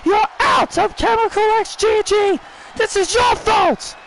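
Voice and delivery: high, bitter accusing voice; a hint of a furious wrestler blaming her partner; angry Shotzi. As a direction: Shotzi turning on Gigi after the loss.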